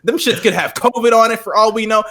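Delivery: high, indignant, laughing rant; disgusted. Retold or imitated. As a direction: act outraged at the dirty shoes. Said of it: "I was like".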